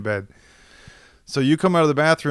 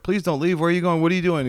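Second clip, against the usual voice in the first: higher-pitched imitated plea; retold pleading; 6 semitones higher, faster than usual. Storyteller replaying himself as John walks out the door, pleading. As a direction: act out anxious questions to a drunk friend. Retells pleading with his drunk friend.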